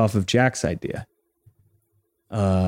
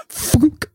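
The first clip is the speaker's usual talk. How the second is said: thunk sound effect. Acted.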